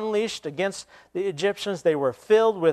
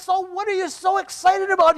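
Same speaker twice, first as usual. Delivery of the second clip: much higher mocking dude tone; dude voice mimicking scholar; 4 dB louder than usual. Kid echoing the scholar's question in dude voice. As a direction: toss the question back, stoked. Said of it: "He says".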